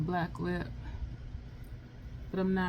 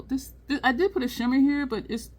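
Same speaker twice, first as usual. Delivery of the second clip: normal talking voice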